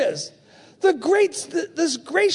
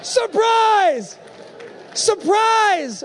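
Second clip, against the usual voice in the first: excited laughing quote; 8 semitones higher, slower than usual. Retold or imitated. Converted officer telling the pastor, laughing and shouting. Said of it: "He said".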